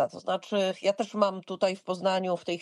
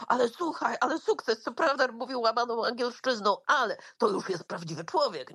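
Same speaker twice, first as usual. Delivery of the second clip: imitated uplifting encouragement. Chatbot reassuring a frustrated user, lightly imitated encouragement. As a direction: play a chatbot keeping someone's spirits up. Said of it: "takie bardzo podnoszące na duchu rzeczy".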